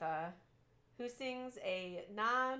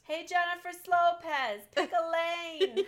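road rage yelling; 9 semitones higher, 7 dB louder, slower than usual. Retold or imitated. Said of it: "starts yelling at pedestrians and other drivers".

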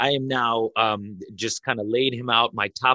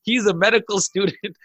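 higher, eager insisting; eager crowd defense; 8 semitones higher, 3 dB louder than usual. Retold or imitated. The crowd to the police, insisting eagerly in his defense. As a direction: vouch for him eagerly. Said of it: "They were like".

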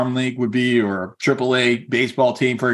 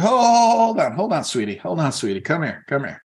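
dad calling after his daughter to wait; 3 semitones higher than usual. Retold or imitated. Dad calling daughter back from line.

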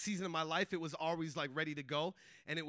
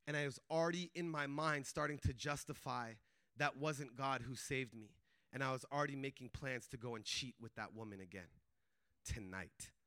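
low voice fading to a near murmur; hushed confession; 10 semitones lower, 9 dB quieter than usual. Retold or imitated. Guard confessing his plans to the student, hushed.

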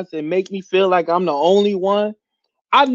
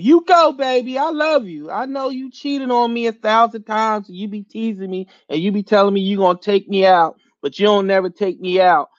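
mock lovesick partner. Voicing a lovesick partner to team.

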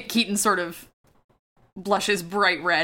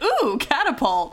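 slow, higher, drawn-out ooh of delight; distracted fascination; 5 semitones higher, slower than usual. Lexi ignoring the professor for the catapult, mock fascination. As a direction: coo over a shiny new gadget. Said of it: "Lexi is like".

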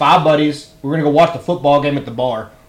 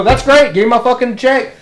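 sarcastic reply; 8 semitones higher than usual. Retold or imitated. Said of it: "I go".

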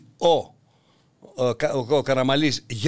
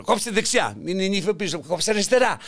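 mother-in-law yelling; 3 semitones higher than usual. Retold or imitated. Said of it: "φωνάζει η πεθέρα".

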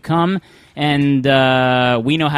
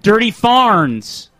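drawn-out repeat of the name, word by word; slow echo; 4 semitones higher, 3 dB louder, much slower than usual. Real, not acted. Host slowly repeating the guest's answer, drawn out. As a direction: say it back slowly to get it right.

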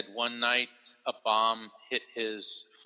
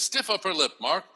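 put-on British accent; 4 semitones higher than usual. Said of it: "She got all very British".

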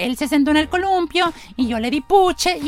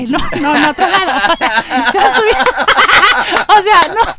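put-on insistent little girl; 3 semitones higher, 5 dB louder than usual. Juanita character laughing, insisting.

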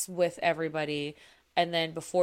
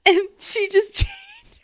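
whispered, high through a laugh; breathless whispered giggle; 12 dB louder, slower than usual. Real, not acted. Laughing mid story.

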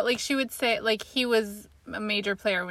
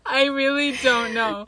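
exaggerated cartoon intonation; 2 semitones higher, slower than usual. Real, not acted. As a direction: stretch it out in a silly voice. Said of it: "Why are you talking like this?".

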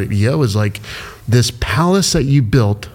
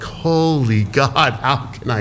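slow, drawn-out dismay, dropping away; retelling a broke moment with slow, drawn-out despair; despairing gasp; 2 semitones higher, much slower than usual. Retold or imitated. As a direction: let the shock drain the voice. Retold moment of money despair.

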